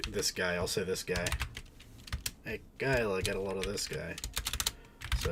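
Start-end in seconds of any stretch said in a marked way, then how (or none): 2.4-4.2 lightly hammed New York twang; New York accent. Streamer pointing this guy out to Kyla, New York accent. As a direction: say it like an amateur New Yorker. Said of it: "New York accent".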